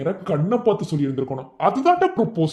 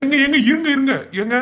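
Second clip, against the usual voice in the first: flustered laughing; 9 semitones higher, 4 dB louder than usual. Acted. Rushing in to stop a quarrel.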